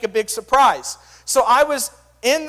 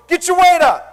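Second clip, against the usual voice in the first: 1 trash-talk taunt; 6 semitones higher, 6 dB louder than usual. Retold or imitated. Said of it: "the guy that's strong will be".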